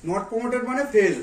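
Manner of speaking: slow and deliberate; slow explanation. Shown as a demonstration. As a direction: spell it out slowly. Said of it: "father explains slowly to child".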